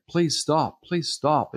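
high pleading with falling swoops; flustered pleading. Retold or imitated. Preacher to a screaming teenager in his meeting, acted flustered pleading. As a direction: plead helplessly, as a retold reaction.

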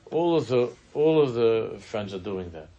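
mock insistent teen; insistent daughter. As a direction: insist like a teen who wants in. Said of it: "she's telling that all of her friends".

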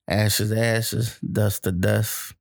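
slow mock-solemn funeral words; mock eulogy. Joking about speaking at the ex's funeral, slow mock-solemn rite. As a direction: intone it like a preacher at the grave.

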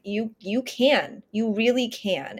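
slow, calm reassurance; steady and gentle, no hurry; calm inner voice. Retold or imitated. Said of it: "it was very calm and consistent".

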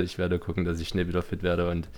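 stuffy nose from a cold; nasal, blocked-up voice. Real, not acted. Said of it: "sorry für meine nasale, nasale Stimme heute".

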